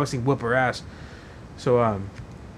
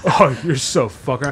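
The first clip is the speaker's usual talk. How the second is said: slow gloating taunt; 2 semitones lower, slower than usual. Retold or imitated. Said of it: "he's like".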